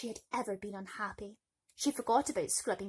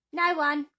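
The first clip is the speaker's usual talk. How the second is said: loud chorus denial; 7 semitones higher, 11 dB louder than usual. Acted. Three women in chorus.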